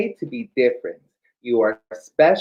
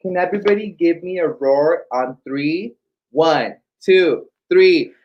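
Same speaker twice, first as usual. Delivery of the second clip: building louder count to three; calling out count; 5 dB louder than usual. Real, not acted. Host counts kids in loudly.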